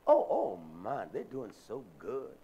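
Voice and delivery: lightly mock admiration with a swooping oh; mimicked gushing approval. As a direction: imitate folks gushing over someone's kids. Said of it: "That's how we talk".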